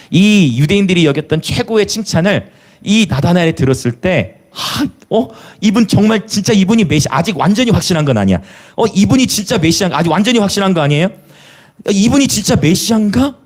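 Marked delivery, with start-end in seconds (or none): 4.5-13.4 Nathanael wondering. Retold or imitated. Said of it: "라고 여기면서".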